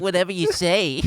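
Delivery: high smarmy sneer. Retold or imitated. Host echoing the smarmy politician voice, high and oily. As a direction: say it oily and condescending. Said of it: "like, smarmy ass".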